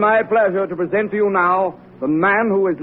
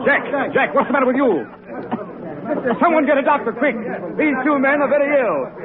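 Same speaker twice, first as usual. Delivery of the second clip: alarmed call for help; 5 semitones higher than usual. Acted. Host sees men collapse, calls help.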